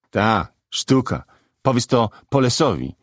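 mildly sneering dare; defiant. Acted. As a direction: throw it out as a challenge. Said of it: "rzucił wyzywająco".

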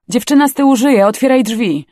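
high, loud rescuer's shout; urgent shouting. A narrator's reading. Rescuer finds girl alive in back, urgent shout.

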